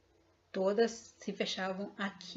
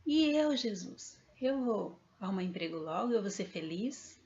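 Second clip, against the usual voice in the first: retold yell. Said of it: "eu gritei".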